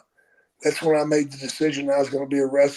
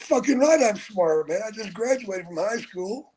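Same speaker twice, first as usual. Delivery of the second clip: cocky reply; 6 semitones higher than usual. Retold or imitated. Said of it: "I said".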